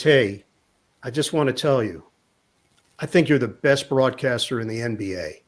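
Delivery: understated, confiding admiration; Kyrie. Retold or imitated. Player praises the wrong man in front, low and earnest. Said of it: "And Kyrie says".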